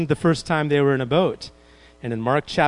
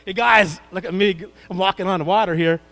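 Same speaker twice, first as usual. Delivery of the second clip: bragging show-off; 3 dB louder than usual. Retold or imitated. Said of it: "He goes".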